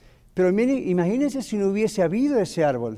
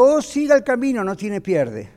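local man's answer; 5 semitones higher than usual. Retold or imitated. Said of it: "Y me dijo".

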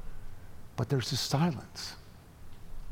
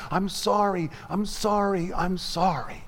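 higher, mildly tearful repeats; repeated tearful apology; 5 semitones higher than usual. Acted. Mother rocking and repeating sorry to her daughter, mild tears. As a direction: plead sorry over and over, understated. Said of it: "saying over and over again".

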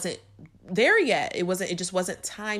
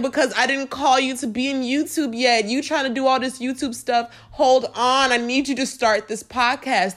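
God's voice; 3 semitones higher, 4 dB louder than usual. Retold or imitated. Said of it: "God was like".

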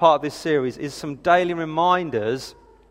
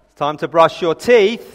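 louder, drawn-out imitation of an insistent parent; parent's raised tone; 6 dB louder than usual. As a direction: firmer mock reminder to the kids. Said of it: "the tone goes up an octave or two".

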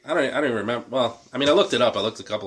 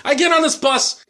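put-on English accent; 11 semitones higher, 3 dB louder than usual. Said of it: "he says it with an English accent".

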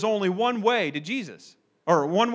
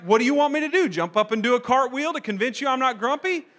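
exasperated retort; 5 semitones higher, 4 dB louder than usual. Retold or imitated. Exasperated reply to family.

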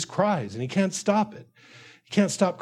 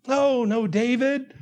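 higher, soothing mock reassurance; encouraging; 3 semitones higher than usual. Preacher as friend consoling David, higher encouraging voice. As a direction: play the well-meaning friend consoling him. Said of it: "you intend by saying those things to encourage him".

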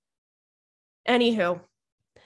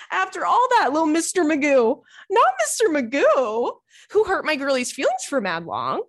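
higher, louder teasing rant; amused mockery; 5 semitones higher, 4 dB louder than usual. Real, not acted. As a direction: make fun of him with a giggle in it. Mocking the guy, amused.

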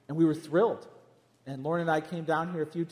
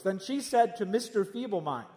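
prophet voice; 3 semitones higher than usual. Retold or imitated. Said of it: "this, like, uh, prophet voice".

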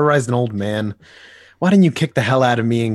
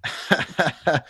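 laugh; 5 semitones higher than usual. Acted. Joker laughs during fight.

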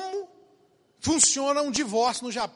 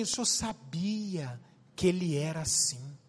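put-on accusing young woman; 7 semitones lower, 6 dB quieter, slower than usual. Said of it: "Uma menina chegou pra mim e falou assim".

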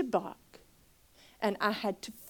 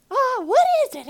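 coaxing friend; 11 dB louder than usual. Retold or imitated. Lee coaxing in high voice.

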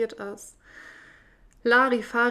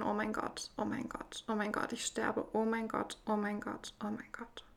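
breathless whisper of a remembered scream; repeated panicked prayer, breathed out softly; retold screaming, whispered; 7 dB quieter than usual. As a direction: relive the panic as a hushed, softer whisper. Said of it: "Ich hab einfach nur geschrien".

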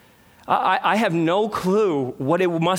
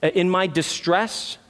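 quizzical. Shown as a demonstration. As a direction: lift the end of distress as if doubting the word. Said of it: "it seems somewhat ambiguous".

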